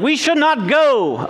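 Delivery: prisoner's warning. Retold or imitated. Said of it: "some prisoner was like".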